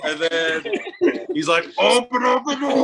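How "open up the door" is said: high, strained imitation of a raging uncle; mock menacing holler. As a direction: holler through a locked door, hammed-up. Imitates uncle banging on door.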